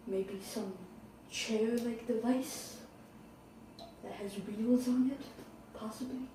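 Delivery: soft, hesitant thinking aloud; hushed, halting mock pondering; quiet musing. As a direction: wonder aloud to yourself, with long pauses. Skit, stranded and musing alone.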